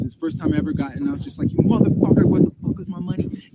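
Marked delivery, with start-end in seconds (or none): 1.5-3.5 loud, breathy mock yell of rage; retold furious yelling. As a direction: replay the moment you lost it on the phone. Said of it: "and I, I lost it".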